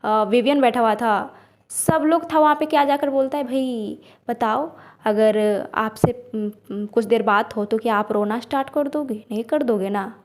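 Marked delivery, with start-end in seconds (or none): 3.4-10.1 mocking. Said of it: "ma'am का मजाक उड़ा रहा है ये". (धीमा, नरम मज़ाक उड़ाता लहजा)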